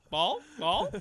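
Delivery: eager dog asking; yappy puppy. Pretend. Repeating the dog voice.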